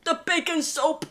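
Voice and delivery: loud, high excited outburst. Real, not acted. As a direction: blurt it out with delight. Excited recall of movie.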